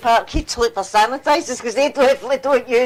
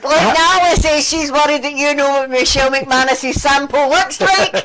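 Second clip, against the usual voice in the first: higher-pitched, laughing through the words; laughing read-out; 4 semitones higher, 3 dB louder than usual. Real, not acted. Co-host reading a viewer's tease about the sample, laughing. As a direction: read it out while cracking up.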